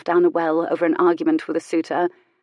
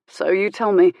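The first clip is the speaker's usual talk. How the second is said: light; 4 dB louder than usual. Acted. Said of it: "he said lightly".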